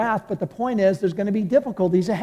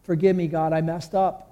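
godly sorrow; slower than usual. Retold or imitated. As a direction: pray it out in slow remorse. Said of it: "godly sorrow going".

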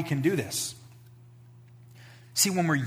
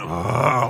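exasperated ugh; 3 semitones lower, 5 dB louder than usual. Retold or imitated. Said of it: "like a eye roll".

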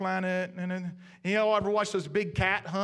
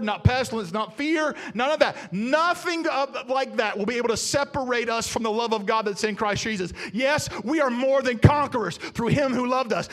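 loud, driving sermon delivery, louder, almost shouting; preaching at full force; 4 dB louder than usual. Acted. Pastor rallying the congregation, preaching at full force. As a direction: preach it out to the whole room.

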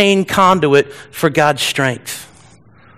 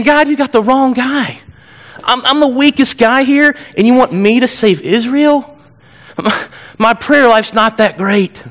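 higher-pitched, lightly whiny protest; whining; 5 semitones higher than usual. Acted. Gideon telling God he picked the wrong guy, whining. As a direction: plead your unfitness with a mild whine. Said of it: "He's whining".

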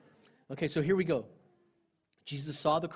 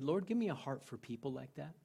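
prayer; 6 dB quieter than usual. Retold or imitated. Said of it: "I prayed".

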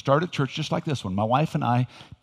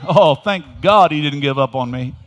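louder, rising praise; joyful shout; 7 dB louder than usual. Shown as a demonstration. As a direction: shout it out with joy. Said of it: "Look at somebody and say".

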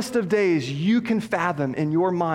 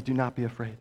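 softer, tender voice of Jesus; gentle reassurance; 6 semitones lower, 7 dB quieter, faster than usual. Acted. Jesus telling his disciples not to fear, softly. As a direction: lay it down gently, like comfort.

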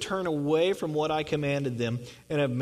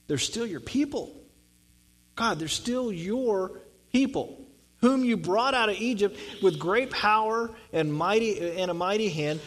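pleading Moses; 5 semitones higher than usual. Retold or imitated. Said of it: "Moses is like".

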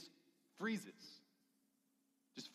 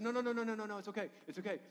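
imitated reassurance; 7 semitones higher, 5 dB louder, faster than usual. Wife calming panicked husband, retold.

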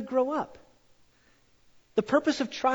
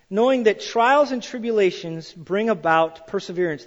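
scripture reading; 3 dB louder than usual. Acted.

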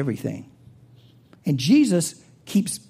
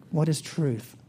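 mocking question; 3 semitones lower, 7 dB quieter than usual. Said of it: "making fun of someone".

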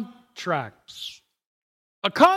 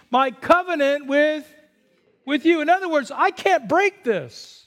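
raised, higher declaring voice of God; God's voice; 5 semitones higher than usual. Acted. Preacher quoting God's covenant to Noah, raised proclaiming voice. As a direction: proclaim it like the Almighty speaking.

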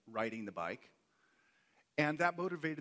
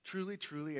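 "Truly, truly" lifted high with weight on both words; emphatic quotation; 6 semitones higher than usual. Retold or imitated. Preacher quotes Jesus saying it twice, emphatic and raised in pitch. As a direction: stress each "truly" as a solemn assurance. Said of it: "it's emphatic. He says it twice".

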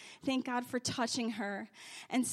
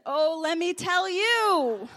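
mother's reply; 6 semitones higher, 8 dB louder, slower than usual. Retold or imitated.

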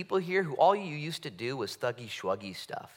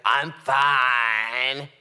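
curt denial; 8 dB louder than usual. Pretend. Bitter person insisting.

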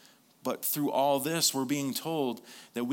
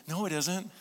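high, playful no-it-isn't; bouncy, delighted contradiction; childlike denial; 7 semitones higher than usual. Retold or imitated. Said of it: "He goes".

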